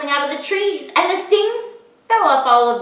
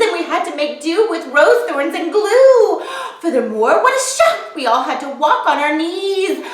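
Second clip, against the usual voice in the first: buzzing bees' voices; 5 semitones higher than usual. Acted. Bees plead, high voiced.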